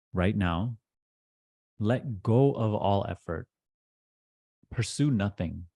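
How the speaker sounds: measured instructions with long pauses between phrases; deliberate meditation teacher, key phrases pressed; guided meditation. Acted. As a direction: guide them firmly into letting go, leaving long silences.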